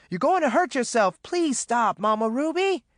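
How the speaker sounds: high, urgent pleading; begging. A narrator's reading. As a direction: beg her desperately to stop. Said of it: "Maureen begged".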